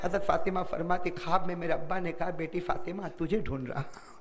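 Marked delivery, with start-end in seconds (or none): 2.3-4.1 low, hushed call to a daughter; a father's hushed call to his daughter in a dream; soft dream voice. Acted. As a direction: speak it softly, as from a dream. The Prophet speaks in a dream.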